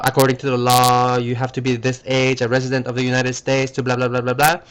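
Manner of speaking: rapid legal disclaimer; fast disclaimer read. Shown as a demonstration. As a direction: rattle it off like an ad disclaimer. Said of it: "when you hear really fast speech".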